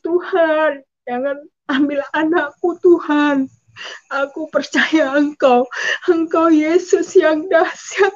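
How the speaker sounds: pleading prayer, rising and slowing at the end; retold tearful plea. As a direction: re-enact begging God for a child. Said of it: "Saya menangis". (doa memohon sambil seperti menangis)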